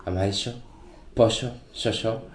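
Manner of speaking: "Amarillo", "pollo", "yo" with ll and y said as sh; Uruguayan sh sound. Shown as a demonstration. Guest showing the Uruguayan sound, sh in "Amarillo", "pollo", "yo". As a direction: say "pollo" as "posho", "yo" as "sho". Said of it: "me chocó un poco el chip".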